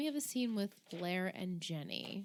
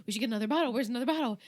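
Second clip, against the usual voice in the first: put-on drunk dad; 4 semitones higher, 4 dB louder, much faster than usual. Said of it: "He's like".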